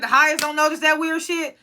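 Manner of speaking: high-pitched incredulous question; baffled disbelief. Retold or imitated. Viewer recapping a puzzling scene, baffled disbelief. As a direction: replay your bewildered reaction, voice lifted high. Retelling own disbelieving reaction to show.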